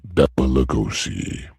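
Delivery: low booming effect voice; male voice effect. Pretend. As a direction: speak it through a deep voice changer. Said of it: "where's my effect".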